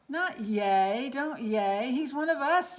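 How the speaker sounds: loud protest rising high; urgent yell. Acted. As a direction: stop the cheering, urgently. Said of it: "yelled Pip".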